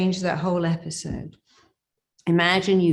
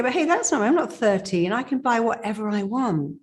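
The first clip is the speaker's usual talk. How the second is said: high, bright-voiced declaration of freedom, lifted well above her usual pitch; empowered declaration; 5 semitones higher than usual. Coach voicing a grown woman's new freedom, exclaimed high.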